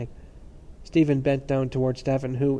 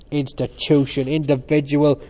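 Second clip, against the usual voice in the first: mocking cry; 6 dB louder than usual. A narrator's reading. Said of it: "cried Cranley".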